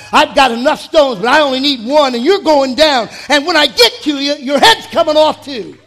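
a lightly voiced David, loud and cocky; defiant David. David taunting Goliath before the battle, loud and cocky. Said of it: "But David said".

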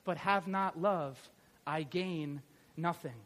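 solemn, unhurried Bible reading; scripture reading. Acted. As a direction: read the passage with reverent weight. Reading scripture passage aloud.

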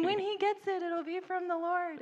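very high, loud promise; confident proclamation. Retold or imitated. Rebecca insisting to teachers that Chris's French will come from God. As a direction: declare it with joy. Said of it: "And I kept saying".

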